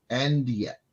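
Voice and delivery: hushed dramatic aside; whisper. Real, not acted. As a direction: drop to a whisper for effect. Dramatic pause before thanks.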